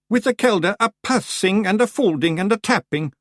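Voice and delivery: lightly voiced doom-laden Scots; a hint of doom. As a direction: intone it like a sentence of doom. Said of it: "in a voice of doom".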